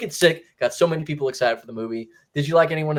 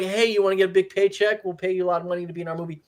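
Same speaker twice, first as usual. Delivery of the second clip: fast, higher-pitched mock sales pitch; mock producer pitch; 5 semitones higher, much faster than usual. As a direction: rattle off a tempting offer as a pushy producer. Voices a producer's offer to actress.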